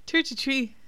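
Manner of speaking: a quick Irish accent on "Tree to tree", th said as t; jokey snippet of Irish accent, "Tree" for three; playful Irish accent demo. Shown as a demonstration. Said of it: "all I can say in Irish accent".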